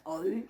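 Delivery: O U as two separate vowels; pronunciación incorrecta. Shown as a demonstration. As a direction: sound both O and U instead of one vowel. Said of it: "no, no es Omicron U". (O U con las dos vocales separadas)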